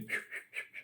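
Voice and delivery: quick, breathy repeated whooshes; imitated needle noise. Speaker showing how the needle just went, imitated noise. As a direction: mimic a needle racing along in short puffs. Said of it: "my needle just went".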